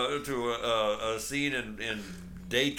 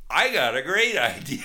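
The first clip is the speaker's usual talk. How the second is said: goofy guy voice; 3 semitones higher, 9 dB louder than usual. Retold or imitated. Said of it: "he's sitting there going".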